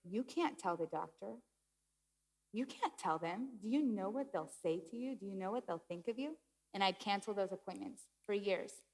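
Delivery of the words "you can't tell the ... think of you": lightly voiced inner doubter, softer; voice of anxiety. Anxiety warning her off calling the doctor, quiet doubting voice. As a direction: warn quietly, with questioning lifts at the ends. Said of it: "I would hear this".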